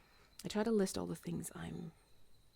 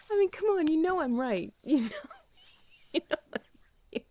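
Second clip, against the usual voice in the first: louder, higher, laughing through it; laughing insistence; 9 semitones higher, 9 dB louder than usual. Real, not acted. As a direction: insist playfully, giggling.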